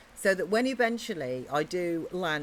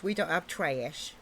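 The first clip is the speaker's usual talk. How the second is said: American accent; 2 semitones lower, slower than usual. Shown as a demonstration. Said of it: "over here we have rubbish".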